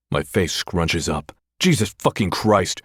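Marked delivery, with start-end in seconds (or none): 1.6-2.8 higher, sharp irritated snap. Acted. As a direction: bite it off in disgust. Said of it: "I snap".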